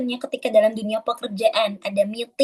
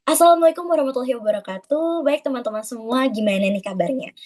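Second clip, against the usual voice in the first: lively greeting. Shown as a demonstration. Teacher shows students a lively meeting greeting. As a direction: greet the room with energy. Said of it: "Tapi coba diganti".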